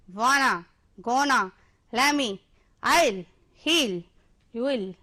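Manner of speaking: contractions called out one by one, each crisp; contraction recap. Shown as a demonstration. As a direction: rattle off the list for the class to echo. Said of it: "एक बार दोबारा से फिर से इसको पढ़ते हैं". (बच्चों के लिए संकुचित शब्द एक-एक करके दोहराते हुए)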